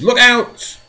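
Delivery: loud, high repeated warning; alarmed shout. Acted. James shouting again as the centipede teeters, panicked. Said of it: "cried James".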